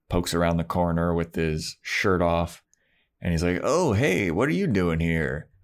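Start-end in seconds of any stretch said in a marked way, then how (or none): 3.6-5.5 lilting mock-casual "oh, hey"; swooping, breezy imitation of a greeting; retold casual greeting. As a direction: play an offhand, surprised-to-see-you greeting. Retelling Angel's casual greeting to Buffy.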